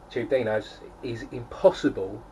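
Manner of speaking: Tube Dinos with a mock Kiwi-Aussie twang, Dinos like "Daynize"; lightly done New Zealand-Australian accent; Antipodean accent. Shown as a demonstration. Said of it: "in an Antipodean accent".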